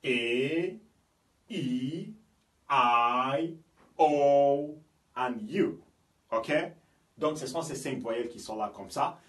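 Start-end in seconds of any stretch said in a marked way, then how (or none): 0.0-5.7 "E, I, O, and U" as English letter names with long pauses; English vowel names. Shown as a demonstration. Teacher naming the five vowels to learners, English vowel names. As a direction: recite "E, I, O, and U" one by one, each drawn out. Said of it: "nous avons ici".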